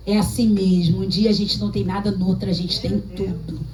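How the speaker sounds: lightly voiced devilish mockery, pitch dropped; Satan's voice. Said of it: "Parece o próprio Satanás falando". (imitando a voz do próprio Satanás, mais grave)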